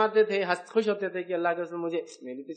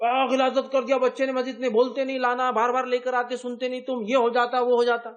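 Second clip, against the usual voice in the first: higher, louder mock grumbling; mock complaint; 4 semitones higher, 3 dB louder than usual. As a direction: rant like an annoyed worshipper. Imitating angry complainers. (شکایت کرنے والوں کی نقل، اونچی آواز)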